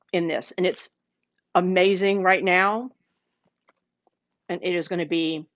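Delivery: chewing while talking; words round a bite of bread; mouth full. Real, not acted. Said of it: "Talking to you guys with my mouth full".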